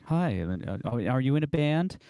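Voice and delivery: put-on British accent. Queen greeting a guitar god, in imitated British accent. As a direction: put on a light, high British lilt. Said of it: "in her little British accent".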